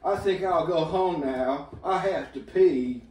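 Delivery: put-on Boston accent. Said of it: "Did you just do a Boston accent?".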